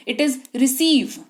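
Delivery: very slow, careful "It is receive"; slow model phrase. Shown as a demonstration. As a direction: spell it out slowly for the class. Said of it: "गलत बोलते हो भाई". (धीरे धीरे साफ़ बोलकर दिखाना)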